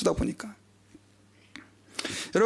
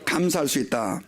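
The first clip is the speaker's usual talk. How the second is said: repeat after me; 5 semitones lower than usual. Shown as a demonstration. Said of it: "한번 따라해 봅시다".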